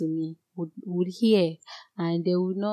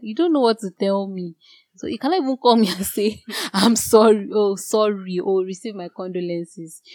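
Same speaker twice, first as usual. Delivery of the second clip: indignant retort; 2 semitones higher, 7 dB louder than usual. Retold or imitated. Mocking friends' hollow sympathy.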